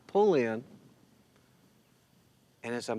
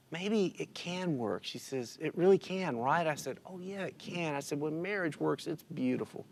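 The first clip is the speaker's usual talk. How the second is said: soft, higher-pitched, heartfelt voice; tender sincerity; 4 semitones higher, 6 dB quieter than usual. Retold or imitated. Widower and waitress discussing marriage, tender. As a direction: gently share something close to the heart.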